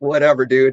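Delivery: ordinary talk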